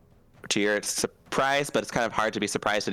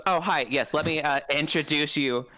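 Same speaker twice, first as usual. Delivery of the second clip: jalapeno voice; 4 semitones higher than usual. Acted. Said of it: "Penyo goes".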